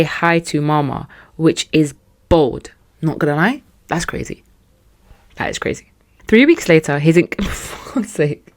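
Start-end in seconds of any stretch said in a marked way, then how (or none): 3.9-4.4 unvoiced whispered aside. Real, not acted. Whispering to listeners about the bold snub. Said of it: "whispered aside". 5.4-5.9 unvoiced, emphatic whisper. Real, not acted. Whispering again to listeners, stressing the snub. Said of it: "repeated whisper".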